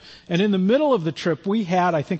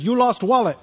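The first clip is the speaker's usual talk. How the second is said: imitated Eastern European accent, higher pitch; 4 semitones higher than usual. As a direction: retell him in broken, Eastern European-accented English. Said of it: "real heavy kinda Eastern European accent".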